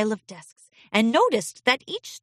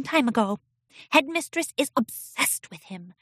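quiet filly voice; 7 semitones higher than usual. A narrator's reading. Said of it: "and said quietly".

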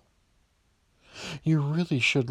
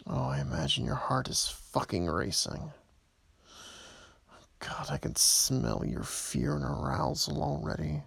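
menacing whisper; 5 dB quieter than usual. Acted. Whispered taunting in the voicemail.

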